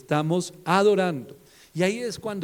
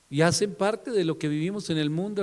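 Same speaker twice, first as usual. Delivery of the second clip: normal talking voice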